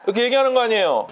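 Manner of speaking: ordinary delivery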